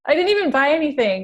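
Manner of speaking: laughing whisper. Real, not acted. Laughing aside about infomercials.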